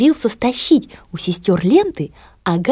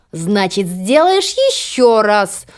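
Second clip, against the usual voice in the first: cold; much slower than usual. Acted. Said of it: "холодно добавила мачеха".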